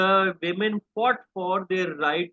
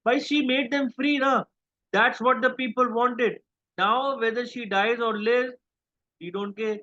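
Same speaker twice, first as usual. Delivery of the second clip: mock callous; 4 semitones higher than usual. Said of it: "mocking the callous and heartless attitude".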